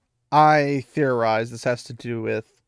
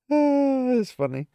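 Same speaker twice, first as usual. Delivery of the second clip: laughing; 11 semitones higher, slower than usual. Real, not acted. Laughing after reading passage.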